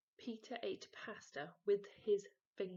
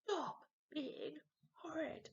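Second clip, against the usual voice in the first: higher, slow stern father; stern dad; 8 semitones higher, slower than usual. A narrator's reading. Dad scolds son, slow and stern. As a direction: lay down the law slowly. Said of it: "shouted Dad".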